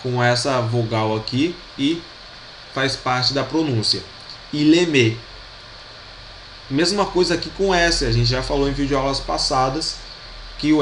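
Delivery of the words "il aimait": Il aimait with L joined, ee-leh-MEH; Il aimait run together as ee-leh-MEH; linked L. Shown as a demonstration. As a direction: join the L of Il aimait to the vowel. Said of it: "o L ele se junta".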